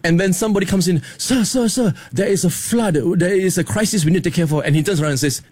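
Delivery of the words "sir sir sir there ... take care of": panicked servant. Retold or imitated. Breathless underling reporting a flood.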